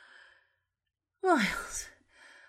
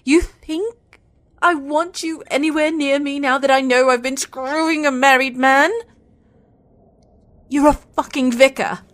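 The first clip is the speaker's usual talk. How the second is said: heated rebuke, building louder; indignant anger; 4 dB louder than usual. Acted. Woman berating married vicar lover, indignant. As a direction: accuse them, pushing harder as it goes.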